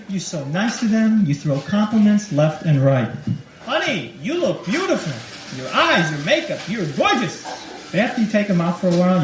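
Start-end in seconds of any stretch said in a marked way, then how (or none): 3.7-7.4 sweet flattery. Retold or imitated. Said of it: "your tone of voice changes".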